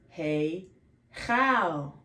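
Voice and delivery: CHAL with a flatter 'a' as in bat; Aramaic pronunciation. Shown as a demonstration. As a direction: flatten the vowel of CHAL after throaty 'kh'. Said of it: "Now in Aramaic, it's".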